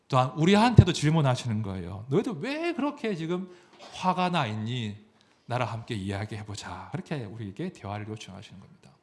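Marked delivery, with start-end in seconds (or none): 2.1-6.9 gentle invitation. Acted. God inviting people to talk with him, gently.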